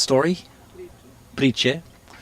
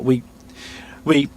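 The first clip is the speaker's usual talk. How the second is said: usual speaking voice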